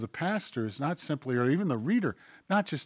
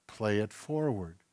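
softened, slightly low, measured charge; whispering God; 3 semitones lower, 6 dB quieter than usual. Acted. God sends you to give away what was given, gently hushed. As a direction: send them off gently and quietly. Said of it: "God whispers to you".

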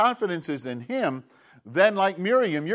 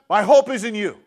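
loud cry of faith; 5 semitones higher, 7 dB louder than usual. Shown as a demonstration. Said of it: "There it is".

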